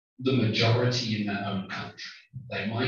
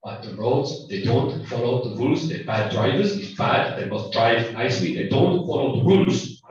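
mock German accent building to a loud, angry complaint; German-accented rant, louder toward the end; bad German accent; 5 dB louder than usual. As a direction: put on a bad German accent, growing heated. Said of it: "do a bad German accent".

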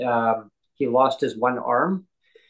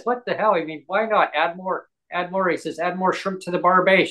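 higher-pitched mock-carefree quote; imitating a joker, pitched up; joking bravado; 6 semitones higher than usual. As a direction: pile it on for laughs. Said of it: "His sense of humor was".

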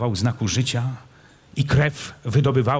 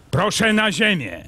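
raised, threatening order; menacing call; 9 semitones higher than usual. Acted. Kmicic orders the prince off his horse, threatening. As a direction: bark it down at the mounted prince. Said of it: "zawołał groźnie Kmicic".

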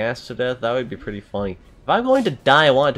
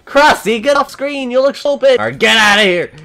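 shouting; 12 semitones higher, 9 dB louder than usual. Real, not acted. Yelling at game character.

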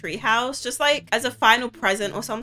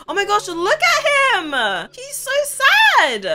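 pitying; 9 semitones higher, slower than usual. Real, not acted. Pitying sad sim.

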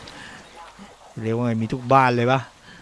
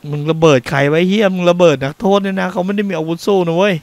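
angry shout; 7 semitones higher, 5 dB louder than usual. Real, not acted. Player furious at enemy bombing prisoners.

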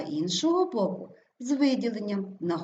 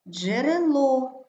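Джерело slow and loud, stressed дже-ре-ЛО; 5 semitones higher, 5 dB louder, much slower than usual. Shown as a demonstration. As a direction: stretch the final ЛО in Джерело. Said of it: "наголос падає на О". (Джерело повільно, з наголосом на ЛО)

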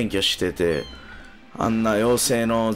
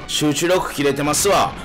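slurring tipsy streamer talk; 3 semitones higher than usual. Real, not acted. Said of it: "酔ってますわ". (酔っ払いの喋り)

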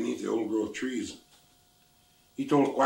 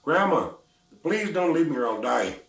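loud, higher desperate plea; begging; 4 semitones higher, 5 dB louder than usual. Acted. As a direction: cry out to grandma not to go. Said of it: "she begged him".

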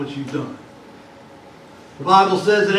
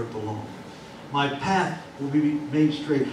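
psalm reading; 8 semitones lower, 11 dB quieter than usual. Acted. Psalm read slowly and softly.

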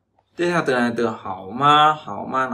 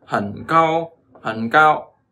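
hẳn light, then cao pushed louder; second word cao said stronger than hẳn; stress on cao; 3 semitones higher, 5 dB louder, much slower than usual. Shown as a demonstration. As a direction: punch the second syllable cao. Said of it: "từ cao này nó mang tính chất là mạnh hơn".

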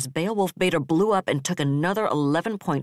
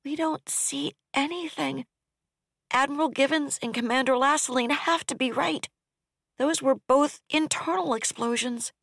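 ops officer voice; 11 semitones higher than usual. Acted. Ops officer reports the explosions to the admiral, grimly. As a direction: voice her as a grieving officer reporting.

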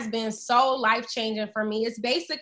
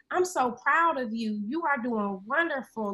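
loving parent voice. Retold or imitated. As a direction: reassure yourself like a loving parent would. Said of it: "I'm cultivating this voice that's like".

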